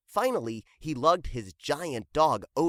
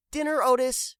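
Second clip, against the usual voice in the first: high, louder call to the dog; 11 semitones higher, 5 dB louder than usual. Acted. Hank calls Otis to dinner, high and loud. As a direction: call the dog to his bowl. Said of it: "called Hank".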